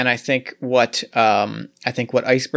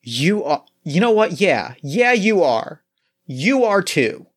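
higher, eager affirmation; excited agreement; 4 semitones higher than usual. Acted. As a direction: cheer her on, rising. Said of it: "And I'm like".

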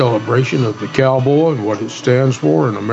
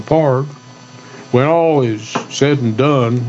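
cowboy poetry. Shown as a demonstration. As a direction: recite it like a eulogy poem. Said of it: "I'm gonna do a cowboy poem".

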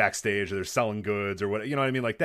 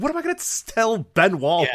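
high strained disbelief, slowing at the end; panicked squeak; 9 semitones higher, 6 dB louder than usual. Retold or imitated. To his friend nudging him, a high panicked squeak. Retelling panicked reply in elevator.

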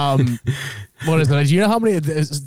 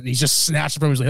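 ordinary talk

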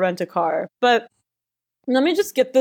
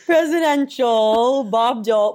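laughing. Real, not acted. Laughing through the line.

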